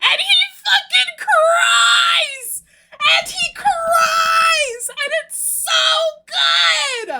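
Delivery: stretched, squealing fangirl outburst; excited shouting. Real, not acted. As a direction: shriek it out in giddy delight. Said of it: "I got a little excited there".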